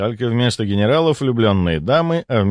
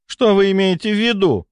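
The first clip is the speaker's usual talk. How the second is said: frowning; 11 semitones higher than usual. A narrator's reading. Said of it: "нахмурилась графиня".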